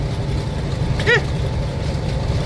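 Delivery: breathy laugh at own joke; short airy chuckle. Real, not acted.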